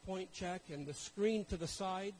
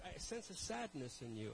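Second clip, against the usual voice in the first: softer, gentle pastor voice; soft pastor's concern; 6 dB quieter than usual. Retold or imitated. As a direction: tenderly voice the caring pastor. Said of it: "That pastor's heart".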